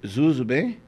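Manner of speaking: lightly voiced stoned teen; a hint of hazy, low-key greeting; stoned son. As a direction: imitate a mildly stoned kid. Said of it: "Quando ele tá na chapaceira, ele é filosofa".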